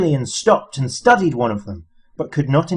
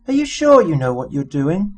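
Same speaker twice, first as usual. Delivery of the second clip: nervously; 5 semitones higher than usual. A narrator's reading. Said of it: "peering nervously into the darkness".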